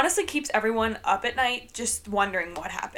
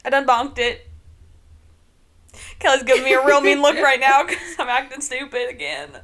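light put-on country twang, louder; 7 dB louder than usual. To the co-host, a light hammed-up Southern country twang. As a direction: play a dumb country girl. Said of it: "start out the episodes with a country twang".

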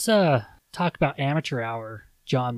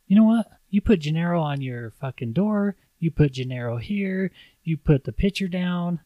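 sharp, high start that settles into scolding; a hint of heated complaint; angry retort; 5 semitones higher than usual. Husband snapping at wife about her name.

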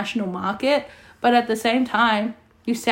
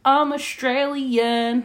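mock broad Australian; 3 semitones higher, much slower than usual. Shown as a demonstration. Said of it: "But it's not like".

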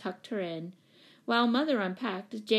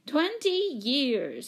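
slow, weighty emphasis on Twenty; stated; 6 semitones higher, 5 dB louder, much slower than usual. A narrator's reading. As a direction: lean hard on Twenty, very slowly. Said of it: "stated Missus Pennypacker".

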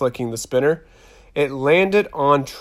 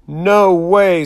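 shocked; 6 semitones higher, 7 dB louder than usual. A narrator's reading. Gasping at crush news.

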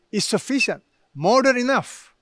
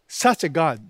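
ordinary talk, nothing marked

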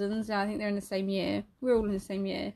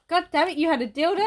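angry; 6 semitones higher, 7 dB louder than usual. Retold or imitated. Granddad's retold argument.

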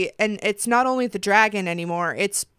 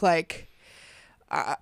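ordinary delivery

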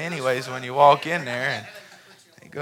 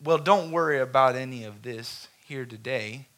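soft, lower reassurance; reassuring boss; 3 semitones lower, 7 dB quieter than usual. Retold or imitated. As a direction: gently comfort her. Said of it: "He said".

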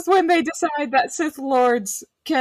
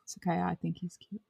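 whisper; 3 semitones lower, 13 dB quieter than usual. Real, not acted. Teasing aside after embarrassing moment.

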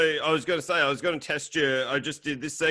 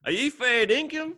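much higher questioning tone; acted disbelief; 10 semitones higher than usual. Host demonstrates slang to guest, high mock disbelief. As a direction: ask it as if you can't believe it. Acts example of slang usage.

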